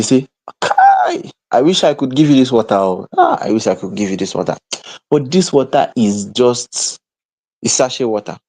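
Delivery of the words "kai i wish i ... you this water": mock pity. Mocking pitying refusers.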